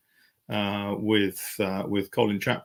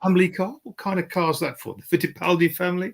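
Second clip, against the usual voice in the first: higher, hammed-up Birmingham accent; mock Brummie comic doing a deadpan joke; Jasper Carrott Brummie accent; 9 semitones higher than usual. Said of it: "So you doing that accent".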